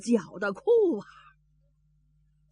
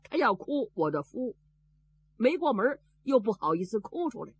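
usual speaking voice

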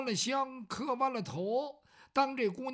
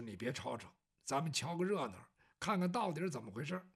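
much lower and softer, hushing; hushing whisper; 7 semitones lower, 6 dB quieter than usual. Acted. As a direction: keep your voice down and watch. 张龙叫赵虎别嚷. (张龙压低声音让赵虎别嚷)

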